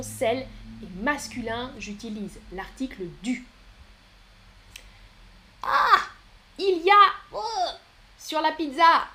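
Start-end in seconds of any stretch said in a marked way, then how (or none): 5.6-9.1 high, loud playful gasp of surprise; mock shock. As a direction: exclaim in feigned shock, pitched well up. Mock shock at pineapple on pizza.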